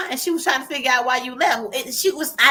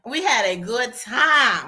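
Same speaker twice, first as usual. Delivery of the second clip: slowed emphasis; much slower than usual. Real, not acted.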